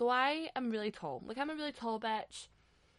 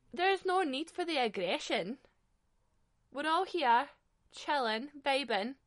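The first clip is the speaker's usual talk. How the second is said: mock calming plea; 5 semitones higher, 5 dB louder than usual. Mock plea to the gym guy.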